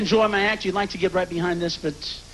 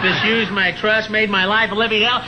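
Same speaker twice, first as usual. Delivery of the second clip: mounting rant; 3 dB louder than usual. Acted. Comedian venting at past doubters.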